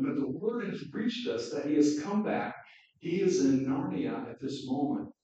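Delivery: lively read-aloud of Narnia; story reading. A narrator's reading. Preacher reading Narnia to the congregation, lively storytelling. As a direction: read the children's story with animated voices.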